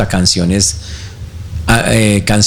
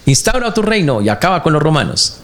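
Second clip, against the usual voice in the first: imagined crowd shouting; 6 semitones higher than usual. Retold or imitated. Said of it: "el que está gritando".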